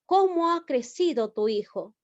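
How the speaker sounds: CÓMO dicho con énfasis de pregunta; emphatic question. Shown as a demonstration. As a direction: marca fuerte el "Cómo". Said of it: "expresa énfasis". (pregunta enfática con "Cómo" acentuado)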